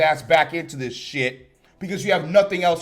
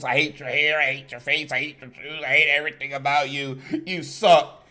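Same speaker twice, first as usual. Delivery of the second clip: mocking retold insults; 3 semitones lower than usual. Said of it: "calling him stupid fucking names".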